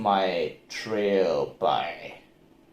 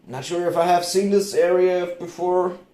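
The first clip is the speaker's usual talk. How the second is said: uneasy; 8 semitones higher, 5 dB louder than usual. Retold or imitated. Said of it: "I was like".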